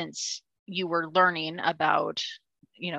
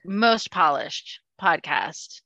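mock grand; much slower than usual. Ironic self-praise.

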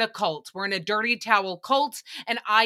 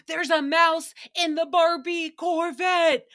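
higher, louder, slow imitated panic; Nicole's iconic line; 7 semitones higher, 4 dB louder than usual. Host imitating Nicole's panic over a mouse in her Barbie car. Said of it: "iconic retelling of the story".

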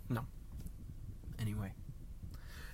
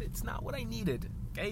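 high-pitched, held-back protest; mock upset; 9 semitones higher, 5 dB quieter than usual. Imagined offended gate lady protests, mock upset and soft. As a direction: pitch it up but keep the volume down.

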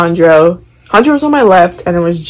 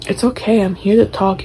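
softer, over-gentle mock comfort; soothing teacher; 2 semitones higher, 6 dB quieter than usual. Imitating a creepy teacher offering to talk, soft and soothing. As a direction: lay the fake sympathy on softly.

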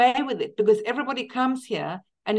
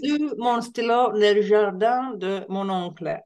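textbook French. Retold or imitated. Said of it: "I learned in French".

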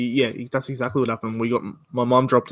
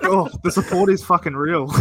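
laughing; 4 semitones higher than usual. Retold or imitated. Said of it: "And I'm like".

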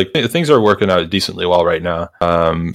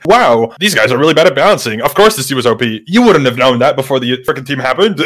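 lightly voiced know-it-all critics, pitched up; a touch of higher-pitched mock outrage; mocking complainers; 4 semitones higher than usual. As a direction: mildly mimic a griping online community. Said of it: "when the community is like".

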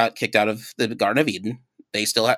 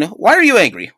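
God; 8 semitones higher, 5 dB louder than usual. Retold or imitated. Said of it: "the Lord said to Cain".

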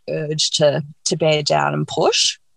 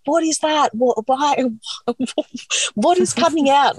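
much higher, sputtering retold panic; imitated laughing-crying; 9 semitones higher than usual. Husband reacting to what came out, imitated high laughing-crying. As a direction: mimic someone caught between laughs and tears. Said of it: "laughing and crying".

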